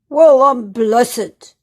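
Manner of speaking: loud, slow amazed cry; loud slow astonished exclamation. Acted. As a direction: gasp it out in disbelief. Percy sees a log instead.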